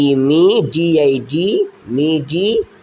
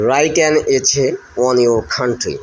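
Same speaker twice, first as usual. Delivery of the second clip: slow title read; 3 semitones lower, much slower than usual. Shown as a demonstration. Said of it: "teacher reads the essay title".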